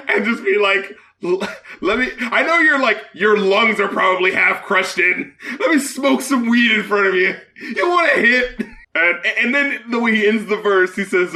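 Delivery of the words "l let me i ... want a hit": mocking through laughter; laughing mock voice. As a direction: laugh while mimicking him.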